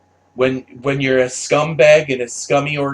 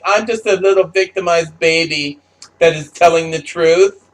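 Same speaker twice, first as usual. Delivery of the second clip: put-on baby voice; 3 semitones higher, 3 dB louder than usual. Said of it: "I'm gonna use my baby voice".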